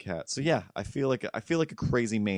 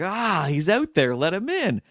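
high, loud, slow mock cat cry; screaming cat; 8 semitones higher, 5 dB louder than usual. The other cat begging to let Milo in, high mock wail. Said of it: "The other cat just starts screaming".

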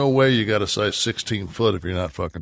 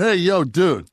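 higher-pitched, brash yell-over to a stranger; impatient heckling patient; 8 semitones higher than usual. Acted. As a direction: nudge a dawdling guy along, mock impatient. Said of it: "I would have looked over and went".

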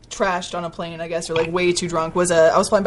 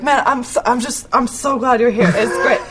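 slow tipsy gushing, a bit louder; getting drunker; 4 semitones higher, 4 dB louder, slower than usual. Retold or imitated. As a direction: gush like you're a few drinks in. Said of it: "I got drunker and drunker".

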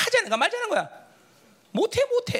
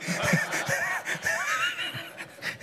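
long, high burst of laughter; 5 dB quieter than usual. Real, not acted. Preacher laughing after his remark, breathy and drawn out. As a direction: break up laughing. Speaker breaks up after a joke.

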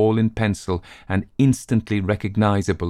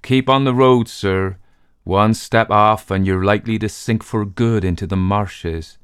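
louder ominous barman warning; 3 dB louder than usual. Acted. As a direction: warn him off grimly. Barman warns.

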